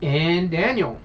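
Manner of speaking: big booming intro, name rolled out; booming announcer voice. Acted. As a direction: announce the host like a game show. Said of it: "nice booming announcer voice right there".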